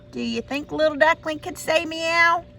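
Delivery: usual speaking voice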